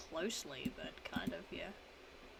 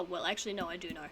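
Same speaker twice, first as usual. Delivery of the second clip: ordinary talk, nothing marked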